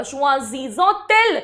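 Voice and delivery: "choisissons-elles" slowly, with a T sound before "elles"; teacher's slow "choisissons-elles" with T pronounced in the middle; linking T sounded. Shown as a demonstration. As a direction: link "choisissons-elles" with an audible T. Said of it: "इसलिए मैंने इसको त बोला".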